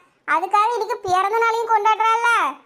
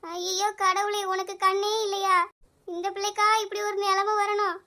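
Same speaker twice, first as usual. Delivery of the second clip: mourning lament. Acted. Mourning lament over the body.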